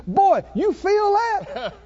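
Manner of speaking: a hint of the teasing preacher, high and slow; imitated preacher. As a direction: lean in and tease him slowly. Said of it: "and he says".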